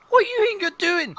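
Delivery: very high, loud dwarf voice; female dwarf. Acted. Dwarf challenging someone at the door, very high voice. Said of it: "she's female for a start".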